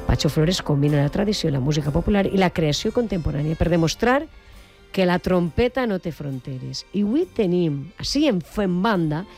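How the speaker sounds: measured presenter's read, emphatic phrase openings; radio introduction. Acted. Radio host presenting a celebrated trumpeter to listeners, announcer style. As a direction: build up the guest with deliberate pauses.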